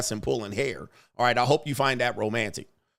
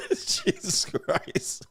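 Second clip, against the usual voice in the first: laughing; 4 dB quieter, much slower than usual. Real, not acted. Laughing breathless aside.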